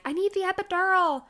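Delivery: high, strained retold plea; pleading for relief. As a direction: beg through labor pain. Pleading for epidural.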